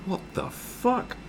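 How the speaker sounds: slow, drawn-out whispered gasp; hushed, hammed-up astonishment; stunned disbelief. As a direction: mouth it breathily, aghast. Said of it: "people are, like, going".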